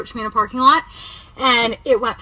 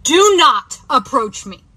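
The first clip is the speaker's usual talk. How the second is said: firm raised warning; yelled warning; 4 semitones higher, 5 dB louder, slower than usual. Retold or imitated. Woman yelling at a stranger to back off, firm and loud. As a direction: tell him off loudly. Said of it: "I literally yelled at him".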